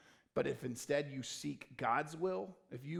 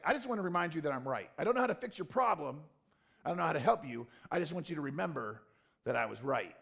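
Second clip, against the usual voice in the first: mock self-righteous; 4 dB louder, faster than usual. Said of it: "Most of us are like".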